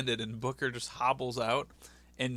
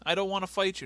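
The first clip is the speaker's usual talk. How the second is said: whiny JBL imitation; 8 semitones higher, 3 dB louder than usual. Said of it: "And J B L's like".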